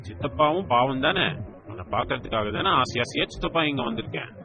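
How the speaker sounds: mock childish pleading. Uncle begging niece to stay, mock-pitiful childish plea. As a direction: plead with a pout, playing the poor uncle. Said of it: "சிறு குழந்தை போல் முகத்தை பாவமாக".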